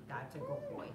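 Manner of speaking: soft squeaky praise for the puppy; doggy praise. Real, not acted. Praising the dog.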